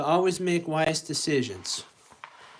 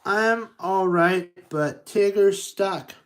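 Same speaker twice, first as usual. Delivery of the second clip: cheerful exclaim; 4 semitones higher, 4 dB louder, slower than usual. Acted. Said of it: "Roo exclaimed cheerfully".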